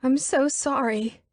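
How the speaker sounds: high, slow, tearful wail. Acted. Elizabeth wails her apology to someone not there, high and slow. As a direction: wail the apology like she's falling apart. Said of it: "she wails".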